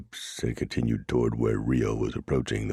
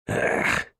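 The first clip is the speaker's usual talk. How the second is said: screech. A narrator's reading. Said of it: "he screeched".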